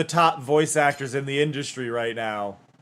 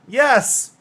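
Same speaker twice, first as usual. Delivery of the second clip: much higher, loud yelp; mock older voice; 9 semitones higher, 6 dB louder than usual. Actor defending older voice to director, mock older voice. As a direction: insist in a badly faked older voice. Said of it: "Is that your older?".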